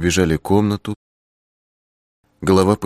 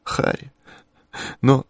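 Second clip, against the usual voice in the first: whispered; 6 semitones higher than usual. A narrator's reading. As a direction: whisper the name. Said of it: "она прошептала".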